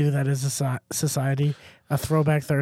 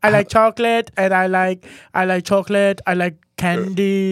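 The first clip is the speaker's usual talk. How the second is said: put-on childlike singsong Swedish-accented voice; simple sweet character with a Swedish lilt; 3 semitones higher, 3 dB louder than usual. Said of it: "my counterpart sounds Swedish".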